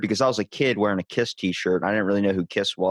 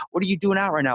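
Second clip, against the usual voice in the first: higher, playful disbelief; amused rock singer; 8 semitones higher, faster than usual. Retold or imitated. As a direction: tease the kid kindly. Singer asks, surprised.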